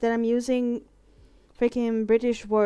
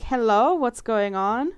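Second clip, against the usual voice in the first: mock "hello?", louder, then drawn out; retold puzzled call; 3 semitones higher, 5 dB louder, slower than usual. Went downstairs to check on them, puzzled call. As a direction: imitate yourself calling out to check on strangers.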